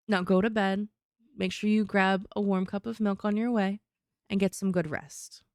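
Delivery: put-on caring mom sending a child off; gently firm bedtime mom. Shown as a demonstration. Mom sending someone to bed with warm milk, caring mom voice. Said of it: "that's the mom voice".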